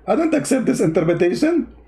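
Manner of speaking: lightly mocked objector, lifted a little; a hint of putting on an opponent's voice; imagined objector. Host imitating a guy who rejects interpretations, lightly mock objection. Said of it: "This guy will say to you".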